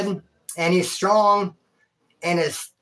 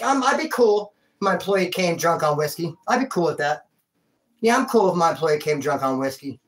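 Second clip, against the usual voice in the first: mock boss; 3 semitones lower than usual. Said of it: "any bosses out there that'd be like".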